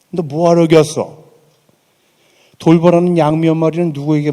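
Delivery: big brother scolding. Retold or imitated. Eldest brother Eliab scolding David for coming, angry scolding. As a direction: put the kid brother down hard. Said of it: "엘리압이 다윗에게 이렇게 나무를 합니다".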